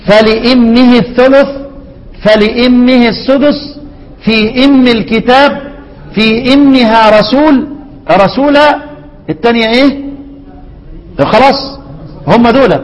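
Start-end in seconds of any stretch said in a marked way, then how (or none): 0.1-8.8 slow chanted recitation with kasra; Hamza and al-Kisa'i reading. Shown as a demonstration. Teacher reciting Hamza's reading for students, slow and chanted. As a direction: recite slowly, each word measured. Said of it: "يقرأ الامام حمزة والكسائي".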